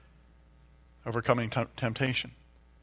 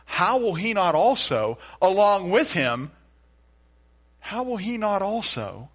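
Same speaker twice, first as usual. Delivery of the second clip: slow, louder He who did not spare, stressing each phrase; slow, higher, louder verse recital; slow emphatic recitation; 6 semitones higher, 5 dB louder, slower than usual. Shown as a demonstration. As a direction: declaim the verse like a proclamation. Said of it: "Let me try it again".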